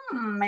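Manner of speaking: a held hum "Mm"; M sound. Shown as a demonstration. Parent showing the sound for the letter M, humming "Mm". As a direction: hum the "Mm" sound under the finger. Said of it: "your mouth is going".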